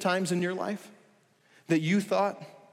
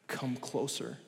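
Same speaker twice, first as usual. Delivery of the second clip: gentle hush; 3 semitones lower, 9 dB quieter, slower than usual. Acted. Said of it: "a gentle whisper".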